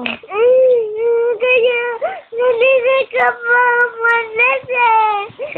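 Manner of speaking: loud, crying protest; tearful. Real, not acted. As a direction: protest through real tears. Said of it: "Stop crying na". (umiiyak na nagrereklamo)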